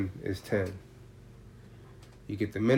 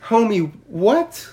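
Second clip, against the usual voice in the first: laughing disbelief; 6 semitones higher, 7 dB louder than usual. Retold or imitated. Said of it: "So I'm sitting there going".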